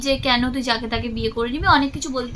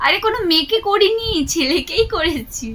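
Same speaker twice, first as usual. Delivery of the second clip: high, louder protest; emphatic; 6 semitones higher, 3 dB louder than usual. Pretend. Correcting the friend, emphatic and high. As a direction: raise it up to set her straight.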